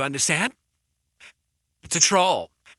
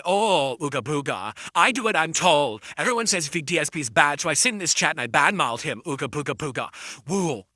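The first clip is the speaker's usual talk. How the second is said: mock caveman hater. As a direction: play a dumb knuckle-dragger parroting the crowd. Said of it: "you knuckle drag".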